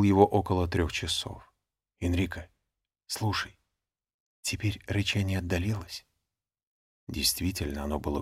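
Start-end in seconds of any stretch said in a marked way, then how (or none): 2.0-6.0 softly, so as not to wake others; hushed voice. A narrator's reading. Waking friend at night.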